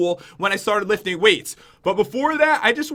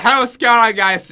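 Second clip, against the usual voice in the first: louder mumbled YouTuber intro; garbled old intro; 6 dB louder, slower than usual. Retold or imitated. His old rushed intro to viewers, garbled and loud. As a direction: rush the greeting until it's mush. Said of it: "I was like".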